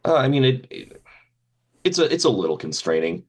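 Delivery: muffled behind a mask; talking through a face mask. Real, not acted. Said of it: "the fact that I'm wearing a mask right now".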